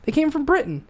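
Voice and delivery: high, impassioned and really angry; angry rant. Real, not acted. Ranting that the founders fought their own people, angry. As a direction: rant it out, pitch pushed up. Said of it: "it makes me fucking angry".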